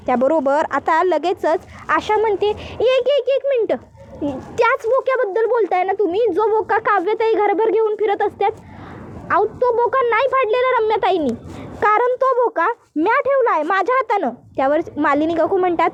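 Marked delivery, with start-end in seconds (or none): 2.8-14.3 higher, anxious rustic maid asking what happened; village maid voice. Acted. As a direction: play the worried housemaid in dialect. Asha explaining the toy cat.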